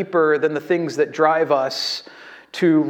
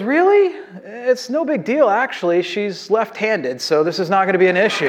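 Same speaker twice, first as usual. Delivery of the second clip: clueless husband; 4 semitones higher than usual. Retold or imitated. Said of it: "And he goes".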